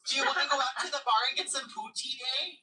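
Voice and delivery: playful Canadian impression; Canadian small talk, hammed up; mock Canadian accent. Joins in the mock Canadian banter.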